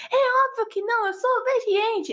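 put-on high, childlike quote voice; Luca's voice. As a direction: squeak it like a young boy. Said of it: "ele fala assim".

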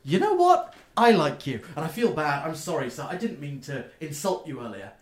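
a softened little gnome apology; gnome shopkeeper. Acted. Gnome apologizing to the halfling customer, lightly voiced.

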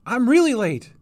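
high, loud flustered cry; flustered and late; panicked gasp. A narrator's reading. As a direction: blurt it in alarm, voice shooting up. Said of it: "she gasped".

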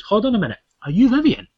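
a high, brightened shop worker calling out; high mock shop clerk. Clerk at the service desk asks the mum, in a high chirpy voice. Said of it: "the guy from the ... desk goes".

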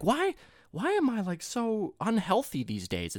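lightly voiced clueless person; whiny mock complainer. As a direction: whine like a clueless snacker. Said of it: "people are like".

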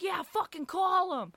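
high-pitched, drawn-out goading; acted defiant taunt. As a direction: play a brother daring the owner. Brother goads owner to call police.

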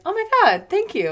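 high, loud, delighted gasp; excited gushing thanks. Retold or imitated. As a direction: gush with delight. Band thanking a fan.

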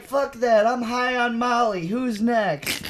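cocky mock yelling; retold rowdy yell. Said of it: "I was literally yelling out".

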